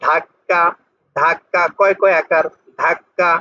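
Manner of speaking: "ধাক্কা" with a held double k; doubled consonant. Shown as a demonstration. Teacher comparing with Bengali, "ধাক্কা" with doubled k. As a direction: stop on the k, then release "ধাক্কা". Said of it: "পরের বর্ণটা দুইবার উচ্চারণ হয়".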